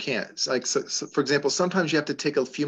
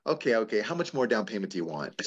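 lower, softer by the end, unruffled; retold calm reply; 3 semitones lower, 4 dB quieter than usual. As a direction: answer him calmly, letting the voice drop away. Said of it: "just said to him calmly".

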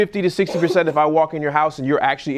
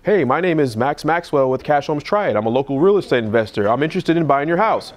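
professional pitch. Shown as a demonstration. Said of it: "if you hear that voicemail versus".

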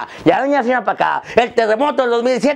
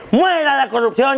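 high, mock ceremonial yell; Grito leader's cry; 5 semitones higher than usual. Comic imitating the president leading the Grito, crying out. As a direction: proclaim it as a rallying slogan. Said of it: "el grito".

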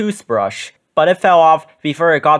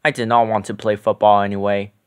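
grumbling; 6 semitones lower, faster than usual. A narrator's reading. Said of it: "Grover grumbled".

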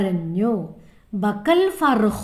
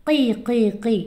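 chick cheeping. Shown as a demonstration. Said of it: "കിളിക്കുഞ്ഞുങ്ങൾ എങ്ങനെ കരയാറ്?".

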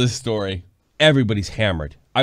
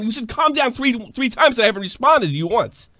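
much higher and louder, exasperated; high, loud mock fury at a bar patron; incredulous outburst; 12 semitones higher, 4 dB louder than usual. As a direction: throw his words back at him in disbelief. Exploding at the patron.

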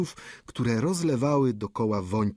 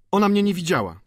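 żywa odpowiedź; 9 semitones higher, 5 dB louder, faster than usual. Acted. Student odpowiada urażony.

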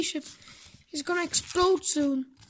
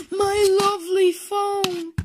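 gasping dismay; 4 semitones higher, 4 dB louder, slower than usual. Acted. Gasp over lost phone.

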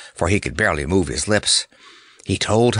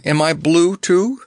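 alarmed question; 8 semitones higher, 4 dB louder than usual. A narrator's reading. Clown fears he turned blue.

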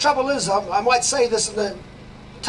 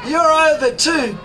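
gloating laugh; 4 semitones higher, 4 dB louder than usual. Real, not acted. Gloating at collapsing media.

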